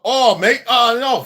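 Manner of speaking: put-on British accent. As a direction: imitate an English bloke in his accent. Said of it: "we speak the accent".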